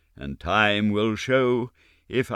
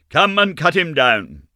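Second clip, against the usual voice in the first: loud urgent command; shouted order; 7 semitones higher, 9 dB louder than usual. Acted. Manager shouts for men to cut the body down. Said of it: "I shouted".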